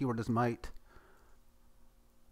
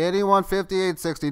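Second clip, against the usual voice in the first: auctioneer calling for bids; higher, louder auction call; 5 semitones higher, 4 dB louder than usual. Pretend. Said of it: "I'm gonna feel like an auctioneer".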